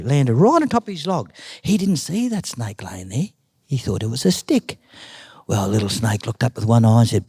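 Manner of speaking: animated oral storytelling with swooping pitch; story narration. A narrator's reading. Uncle tells Nan's snake story, animated storytelling. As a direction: tell it like a yarn, acting out each move.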